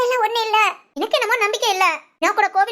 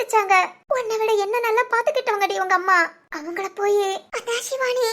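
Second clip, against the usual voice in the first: crying. Acted. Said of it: "முத அழுகைய நிப்பாட்டு".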